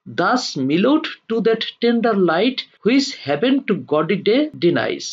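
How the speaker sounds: slow, deliberate verse reading; poem recitation. Acted. Teacher reads Byron's verse to students, slow recitation. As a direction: read the verse out phrase by phrase, slowly.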